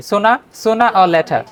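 "sooner, sooner or later" as soona-o-leta; easy SOONER OR LATER. Shown as a demonstration. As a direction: drop every r in "sooner, sooner or later". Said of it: "বলে সহজ কি?".

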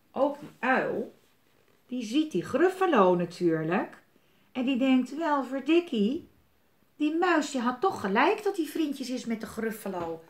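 lively storybook voice with character voices; reading to children. Acted. Reading the Gruffalo aloud to a child, lively and playful. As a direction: read it aloud to a little one.

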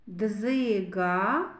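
"Дзига" ending on a long, rising а; final vowel drawn out. Shown as a demonstration. Teacher showing children the vowel А, held long ending "Дзига". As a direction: stretch the last vowel of "Дзига". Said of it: "А голосний".

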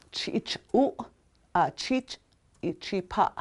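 "chich, u" broken into syllables, softly; slow syllable breakdown. Shown as a demonstration. Teacher breaking words into syllables, quiet and slow. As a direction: sound out "chich, u, a chich, ichipa" syllable by syllable. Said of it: "You see the difference in them?".

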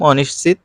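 অনিশ্চিত said softly as ও-নিশ-চিত; soft pronunciation demo of অনিশ্চিত; standard pronunciation demo. Shown as a demonstration. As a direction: spell out অনিশ্চিত in its spoken form. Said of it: "উচ্চারণ হবে এরকম".

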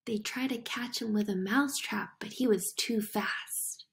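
hushed. Acted. Secret commentary on the trap.

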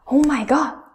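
mildly shocked exclamation. Shown as a demonstration. Teacher gives an example for falling tone, mildly shocked. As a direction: act a little shocked. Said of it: "like you are shocked".

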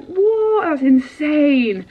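high sharp What then a slow That's insane; stunned, drawing out the disbelief; shocked disbelief. Retold or imitated. Seeing her Grand Prix listed, high stunned What.

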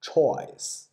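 isolated unvoiced "ch", then the whole word "choice"; teacher modelling the "ch" in "choice"; phonetic sound demo. Shown as a demonstration. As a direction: sound out "ch" alone before "choice". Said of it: "注意这个小的音标".

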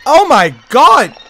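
high panicked screams; terrified scream. Real, not acted. Stabbed by the monster.

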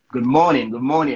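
a light imitated English accent. Beckham walks into the locker room saying hello, English accent. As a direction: mimic an English accent on the greeting. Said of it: "English accent".

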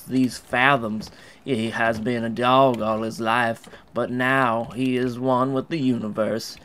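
solemn storyteller musing on a dog; mock philosophical narration.

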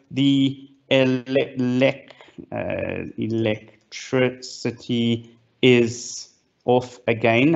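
sarcastic. Shown as a demonstration. Speaker demos a sarcastic tweet about power cuts, slow and deadpan. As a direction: drag it out, weary and sarcastic. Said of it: "and I'm gonna be sarcastic".

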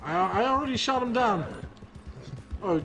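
talking while munching food; words round a mouthful; mouth full. Real, not acted. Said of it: "Sounds like you're munching".

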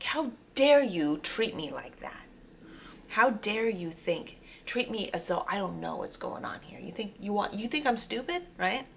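indignant anger. Retold or imitated. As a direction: act out being insulted and indignant. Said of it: "Your immediate reaction is anger".

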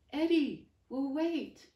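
high, loud, urgent talking dog; talking dog urging Eddie to hurry. Acted. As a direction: call her like an anxious dog.

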